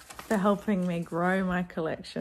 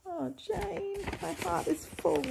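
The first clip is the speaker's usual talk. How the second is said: touched; 10 semitones higher than usual. Real, not acted. Thanking friend, touched.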